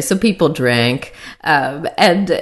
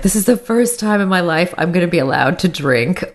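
rising into a giddy, higher squeal; remembering the thrill of being allowed to drink; mock giddy excitement, climbing high; excited inner voice; 4 semitones higher than usual. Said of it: "kind of forefront of my mind was like".

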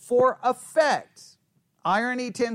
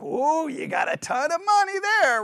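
high, mock-impressed gushing; sarcastic; 6 semitones higher than usual. Shown as a demonstration. Adult to little kid showing money, sarcastic. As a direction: overdo the amazement as if humouring someone. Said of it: "I could do it sarcastically".

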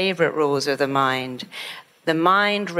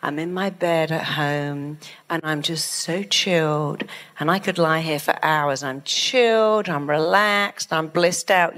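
blissed-out calm. Shown as a demonstration. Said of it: "How about saying".

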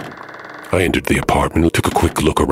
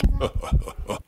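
quick quiet chuckle; a short breathy scoffing laugh; soft dismissive laugh; 11 semitones higher, 6 dB quieter than usual. A narrator's reading. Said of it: "I had to laugh at this".

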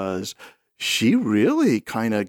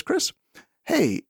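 calm request; 5 semitones lower than usual. Retold or imitated. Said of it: "Well, that's calm".

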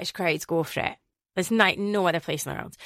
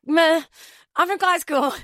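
cocky retort; 9 semitones higher, 5 dB louder than usual. Retold or imitated. Her retorted reply, cocky.

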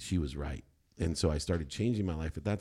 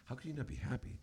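indignant disbelief; 8 semitones higher, 8 dB quieter than usual. Retold or imitated. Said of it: "I'm like".

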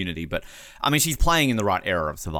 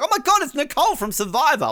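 shrieking much higher, louder fangirl; starstruck fan; 4 dB louder than usual. Pretend. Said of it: "I'm gonna be like".

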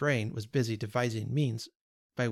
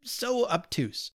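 hesitant; 6 semitones higher, much slower than usual. Acted. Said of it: "he hesitated for the right word".

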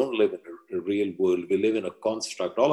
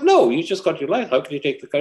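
refusing mother; 6 semitones higher, 3 dB louder, faster than usual. Acted. Mother refusing teen in story.

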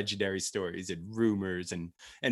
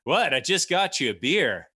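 put-on Australian accent; 7 semitones higher, 6 dB louder than usual. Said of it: "your Australian accent is legendary".

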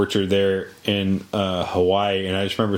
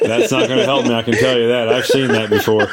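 laughing; 5 dB louder than usual. Real, not acted. Laughing protest about spider cartoon.

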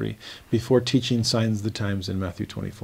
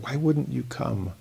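softer, slow, grieving plea; sorrowful Lord; 6 dB quieter, slower than usual. Acted. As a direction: ask it like a hurt parent calling a child. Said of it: "haunting phrase of sorrow on the Lord's part".

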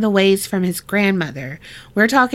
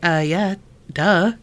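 sarcastic; 2 semitones lower than usual. Retold or imitated. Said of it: "She's like".

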